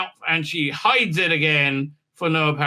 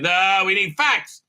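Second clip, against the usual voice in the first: high, curt mock scolding; snippy; 5 semitones higher than usual. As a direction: snap at him like a fed-up boss. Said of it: "she gets snippy with him".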